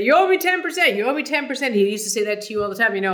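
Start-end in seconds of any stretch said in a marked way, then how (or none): 0.0-1.8 high, loud teasing demand; McEnroe impression. McEnroe ribbing her at a Lakers game, high and loud. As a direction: needle her like a cheeky star. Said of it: "he'd say".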